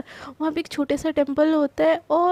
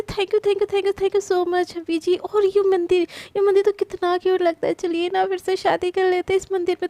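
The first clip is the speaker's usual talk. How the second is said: delighted gushing; 4 semitones higher than usual. Acted. Prachi delighted at the temple.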